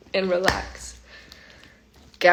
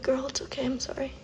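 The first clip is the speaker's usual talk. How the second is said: retold hushed apology; very soft, half-whispered comforting; soft reassurance; 4 semitones higher, 11 dB quieter, faster than usual. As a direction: soothe someone scared, almost whispering. Soothing a scared child, retold.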